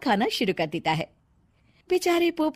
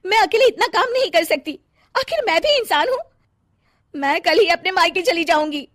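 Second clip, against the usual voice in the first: high-pitched, fed-up complaint; exasperated wife; 5 semitones higher than usual. Acted. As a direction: protest that you have had enough. Fed-up wife threatens to leave home. (तंग आकर ऊँची आवाज़ में शिकायत)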